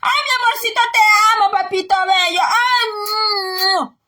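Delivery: put-on syrupy doting coo to a spoiled child; mock a parent sweet-talking the kid; a parent cooing over a thieving son, mocking sweet voice. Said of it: "le va a decir".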